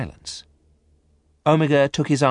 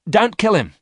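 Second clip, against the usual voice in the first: very high, loud cry to stop; sudden outburst; 13 semitones higher, 7 dB louder than usual. A narrator's reading. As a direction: burst in suddenly with an urgent plea. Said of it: "said Miranda suddenly".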